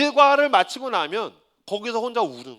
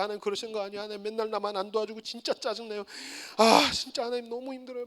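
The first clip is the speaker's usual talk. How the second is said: whining prayer; 9 dB quieter than usual. Retold or imitated. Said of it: "막 기도하고".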